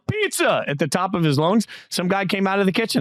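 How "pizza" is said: retold yell. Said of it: "he yelled".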